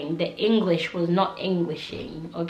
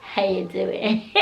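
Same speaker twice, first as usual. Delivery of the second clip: put-on American accent. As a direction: imitate a bad American accent, close to laughing. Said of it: "he's there trying to put an accent".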